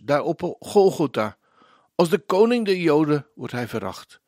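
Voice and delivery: earnest spoken hymn, phrase by phrase with pauses; devotional lyric recitation. Acted. Presenter reading worship lyrics to radio listeners, devotional recitation. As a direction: recite it like a poem, weighting key words.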